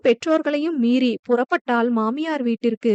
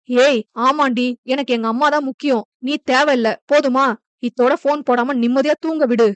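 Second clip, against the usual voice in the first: angry outburst. Acted. Husband shouting at his wife to stop calling, angry. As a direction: shout her down to end the call.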